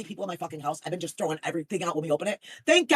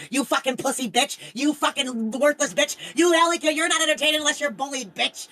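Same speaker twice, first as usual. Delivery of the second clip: imitating a furious rant; 6 semitones higher, 6 dB louder than usual. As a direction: rant like an enraged viewer, hammed up. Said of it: "she'll sit there".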